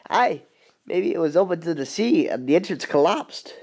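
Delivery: light Scottish accent, lightly put on; a hint of a Scottish railwayman; Scottish brogue, understated. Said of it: "I can kinda do a Scottish voice".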